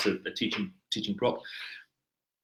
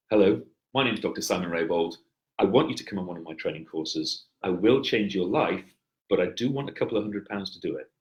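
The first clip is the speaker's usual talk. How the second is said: calm, assured delivery from a lower breath; lower, comfortable pitch; 4 dB louder than usual. Shown as a demonstration. Trainer demonstrates pitching his courses to a client, relaxed and assured. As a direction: pitch it low and unhurried, with steady authority. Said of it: "and the higher one, the anxious sounding one".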